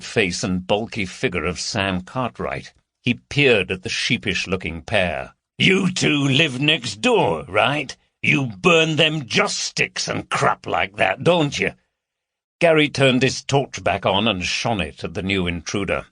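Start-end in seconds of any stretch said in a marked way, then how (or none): 5.6-11.7 slow, mocking big man; lightly voiced bully taunting; a hint of a sneering brute. Cartwright sneers at intruders.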